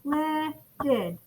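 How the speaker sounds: "lifted" softly split into lif, ted; clapped-out syllables. Shown as a demonstration. Teacher counts syllables with class, "lifted" broken in two. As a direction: say each "lifted" with a clear gap between two beats. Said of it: "Yeah, two syllables".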